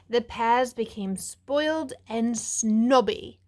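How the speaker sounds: slow British storytelling, leaning on spoiled; British accent. Acted. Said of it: "my best British accent".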